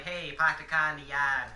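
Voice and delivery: a hammed-up Boston accent. Shown as a demonstration. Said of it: "people from Boston sound like".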